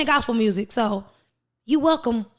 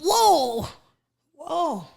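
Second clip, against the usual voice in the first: laughing whoa; 3 semitones higher, slower than usual. Retold or imitated. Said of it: "I'm like".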